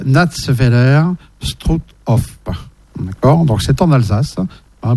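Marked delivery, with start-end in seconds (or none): 0.0-2.4 German accent. Shown as a demonstration. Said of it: "mon accent allemand, il est très bien".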